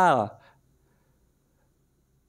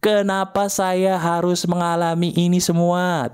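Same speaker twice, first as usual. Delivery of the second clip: demo scream line; 2 semitones higher, slower than usual. Shown as a demonstration. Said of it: "Ayo teriak, silakan".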